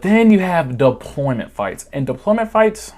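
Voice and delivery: breaking into a laugh on fights. Real, not acted. Telling viewers about deployment fights, breaking into laughter. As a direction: laugh it out, pitch jumping up.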